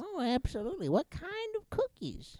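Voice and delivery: high excited voice. Acted. Excited homeowner voice.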